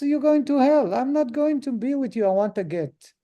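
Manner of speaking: mock-furious wife laying down the law; insistent angry wife.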